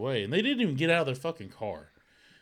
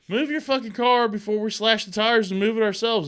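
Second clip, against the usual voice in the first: much higher, louder mock threat; retold threat; 9 semitones higher, 8 dB louder than usual. Wife threatens the neighbor about the tires, loud mock threat.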